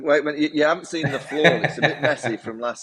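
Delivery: laughing through the words. Real, not acted. Guest laughing as he admits the mess from last night. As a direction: chuckle it out while confessing. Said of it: "I can imagine".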